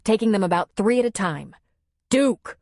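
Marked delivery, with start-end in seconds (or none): 2.1-2.6 higher, louder yell at the dog. Acted. Man yells to his dog, sharp call. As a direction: shout the dog's name. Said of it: "he yelled to the dog".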